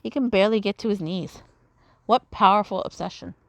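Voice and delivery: earnest, grand fantasy villain reading; lightly voiced villain. Rolo vows to burn the monsters, grand villain delivery. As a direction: read Rolo's lines as a driven sorcerer. Voices Rolo's game dialogue.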